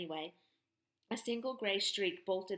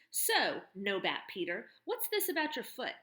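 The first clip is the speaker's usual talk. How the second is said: louder, mocking turnaround of his question; mocking tough woman; 3 dB louder than usual. Barn owner mocking the boy's question, loud and sardonic.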